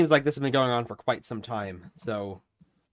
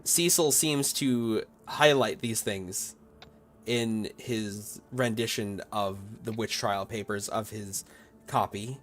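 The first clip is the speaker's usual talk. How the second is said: slow, measured scene setting; game master narration; slower than usual. A narrator's reading. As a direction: draw out the ominous tale with pauses.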